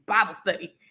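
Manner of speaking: breathy laugh on the words; giggling it out under her breath; laughing whisper of the punchline. Retold or imitated. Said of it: "He was like".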